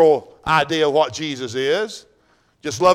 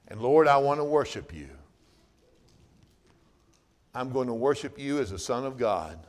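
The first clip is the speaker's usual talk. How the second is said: humble plea; 5 semitones lower, 8 dB quieter than usual. Acted. Voices the humble woman.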